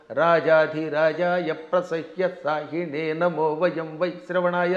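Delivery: slow, low linked chanting; northern chain svara. Shown as a demonstration. Scholar demonstrates the north Indian chain-style chanting, slow low chant. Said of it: "గొలుసు కట్టు స్వరం".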